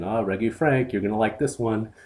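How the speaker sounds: put-on lightly done silly French accent; a hint of a goofy French accent; stupid French accent. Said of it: "in a stupid French accent".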